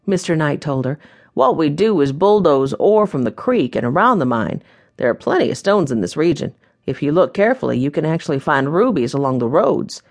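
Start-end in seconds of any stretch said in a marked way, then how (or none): 1.3-10.0 a hint of a folksy proprietor welcoming guests; welcoming mine owner. Mine owner greeting new guests, lightly voiced and welcoming.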